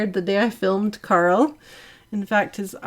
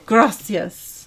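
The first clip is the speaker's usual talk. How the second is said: slow, loud gringo Spanish; bad Spanish accent; 6 dB louder than usual. Thanking a donor in a clumsy Spanish accent. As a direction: attempt a Spanish accent, badly. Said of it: "Now that's a bad accent".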